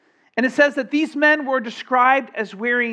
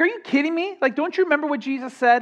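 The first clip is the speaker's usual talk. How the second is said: exasperated disbelief; 6 semitones higher, faster than usual. Pretend. Preacher repeats the angels' rebuke.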